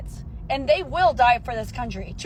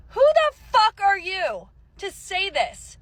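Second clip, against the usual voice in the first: high, slow angry demand; indignant outraged question; angry retort; 4 semitones higher than usual. Real, not acted. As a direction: spit it out in disbelief. Angry outburst at Candace.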